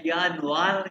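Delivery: यानुआर with the final r sounded; wrong pronunciation. Shown as a demonstration. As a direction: show the mistake: यानुआर ending in a clear r. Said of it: "नहीं".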